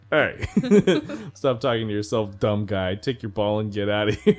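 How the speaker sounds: loud teasing scold; mock scolding. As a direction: shout at him, half laughing. Jake scolding Finn, quoted.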